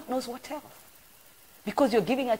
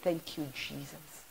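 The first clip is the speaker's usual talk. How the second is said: relieved thanks; 3 semitones lower, 11 dB quieter, slower than usual. Retold or imitated. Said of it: "But I said".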